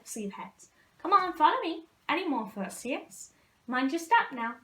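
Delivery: loud, hearty calling out; lightly voiced Hagrid. Hagrid calling the first years over, loud and hearty. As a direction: boom out over the crowd of students. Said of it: "a familiar voice".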